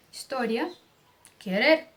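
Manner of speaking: historia, querer with a single light tap R; just flick the R in historia and querer; light middle R. Shown as a demonstration. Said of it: "No meio é pronunciado com som leve". (R leve no meio de historia e querer)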